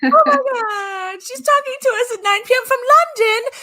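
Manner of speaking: excited put-on English accent, pitched high; pretend English accent. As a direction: gush in a hammed-up English accent. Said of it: "I just pretend to have one".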